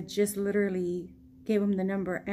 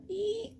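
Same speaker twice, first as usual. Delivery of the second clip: high squeaky "ee"; little rising squeeze sound; squeezing noise; 12 semitones higher, 3 dB quieter than usual. Shown as a demonstration. Mimics squeezing the photo.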